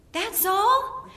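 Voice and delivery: high, laughing incredulous question; husband's disbelief. Retold or imitated. Husband to wife over the bug, high laughing disbelief. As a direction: scoff that it was only a bug. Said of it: "He said".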